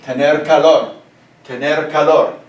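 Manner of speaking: Spanish teacher modelling tener calor; model Spanish. Shown as a demonstration. Teacher models the phrase for the class, clear Spanish. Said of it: "write up on the board just like this".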